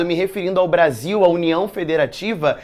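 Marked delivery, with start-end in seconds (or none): none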